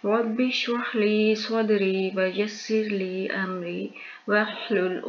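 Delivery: slow, melodic Quranic recitation. Real, not acted. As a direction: recite it with tajweed, drawn out. (धीमी, सुरीली तिलावत)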